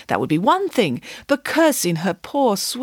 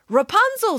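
lightly voiced maiden; 13 semitones higher than usual. Rapunzel answering prince.

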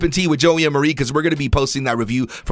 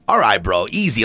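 snarky Corden; 5 semitones lower than usual. Retold or imitated. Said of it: "his little, like, snarkiness".

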